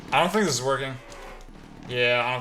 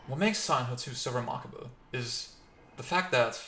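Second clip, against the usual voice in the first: bad Australian accent; 5 dB quieter than usual. Streamer mimicking a somber Silent Hill review, bad Australian accent. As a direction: badly imitate an Australian game reviewer. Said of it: "I'm very bad at the Australian accent".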